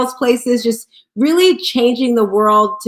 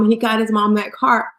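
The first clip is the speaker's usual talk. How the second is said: normal talking voice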